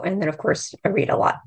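hoarse, croaky voice; talking through a croaky throat; frog voice. Real, not acted. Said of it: "as I have a frog voice today".

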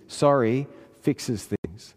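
Sorry fixes things said very slowly, word by word; slow down and lean on Sorry; slow stressed point. Shown as a demonstration. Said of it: "listen to this".

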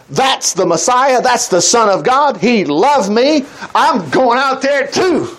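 slow, swelling confidence; a man talking himself into courage; Peter's bold faith. Acted. Peter decides to step onto water, slow and sure. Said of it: "Peter had a moment of".

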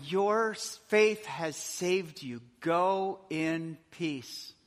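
very slow, gentle release; slow tender blessing. Shown as a demonstration. Jesus sending the forgiven woman away, slow and tender. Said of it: "Look at that".

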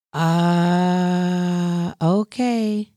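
ordinary talk, nothing marked

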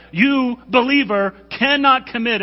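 high, loud call to the believers; emphatic call-out. Real, not acted. Preacher calling out the believers in the pews, loud and high. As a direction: raise your voice and point at them.

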